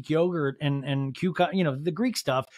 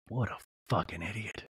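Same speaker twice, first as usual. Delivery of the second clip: mock manly Sean; 9 semitones lower, 9 dB quieter than usual. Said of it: "Like, very manly".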